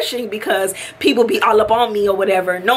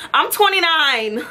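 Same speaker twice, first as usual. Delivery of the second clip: rude; 4 semitones higher than usual. Retold or imitated. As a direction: answer like you can't be bothered with them. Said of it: "I was being straight rude".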